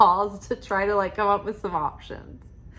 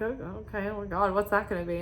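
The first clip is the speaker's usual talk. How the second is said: anxious dread; 5 dB quieter, faster than usual. Retold or imitated. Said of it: "this is never a great thing to hear".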